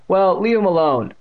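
high, loud parroting voice; exaggerated mimicking taunt; mocking mimicry. A narrator's reading. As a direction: throw the words back in a silly high voice. Bully parrots her words back mockingly.

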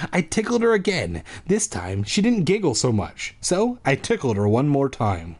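measured storybook reading with swinging intonation; story narration. A narrator's reading. Reader telling a monster-baby story, lilting story narration. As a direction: read it out like a tale.

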